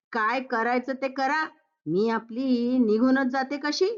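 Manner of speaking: lightly huffy, rising at कशी; a touch of offended pride on कशी; mother-in-law acting hurt before she leaves; huffy exit line. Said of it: "आजकालच्या मुली म्हणजे".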